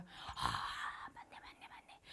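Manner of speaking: breathy hushed agreement; whisper. Retold or imitated. Shaman whispers agreement as if the lift claim made sense, hushed. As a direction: whisper it aside as if convinced.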